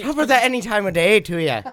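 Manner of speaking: Irish guest voice. Acted. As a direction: play the jolly Irishman.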